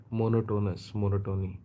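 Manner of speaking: Monotonous with stress on the first syllable, monotony the same; MO-no-to-nous, MO-no-to-ny; Indian-style monotonous. Shown as a demonstration. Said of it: "that's how we pronounce it".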